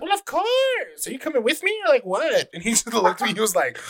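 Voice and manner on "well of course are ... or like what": playing gay. Straight guy teasing a teammate in the hallway, camp and high. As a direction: swoop up high and stretch it out flirtily. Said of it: "straight dude who would be gay".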